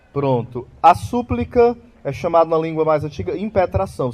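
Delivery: normal talking voice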